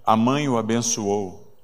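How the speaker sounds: ordinary delivery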